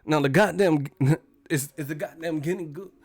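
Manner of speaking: halting, oddly paced Walken cadence; Christopher Walken. Retold or imitated. Streamer does a Walken-style watch speech, halting cadence. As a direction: stretch the pauses in odd places. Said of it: "That's how Walken be talking".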